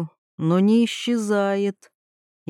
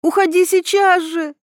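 high-pitched indignant outburst; high, forceful maternal fury; angry mother's cry; 10 semitones higher, 4 dB louder than usual. A narrator's reading. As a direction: order someone away in a raised, angry voice. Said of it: "крикнула мать".

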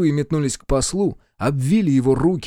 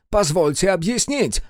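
pleading envoy; 7 semitones higher than usual. A narrator's reading. Pinned envoy begs to explain.

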